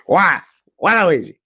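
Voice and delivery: quick cartoon-villain catchphrase; lightly put-on game character cry; Waluigi. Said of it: "that was my impression of Waluigi".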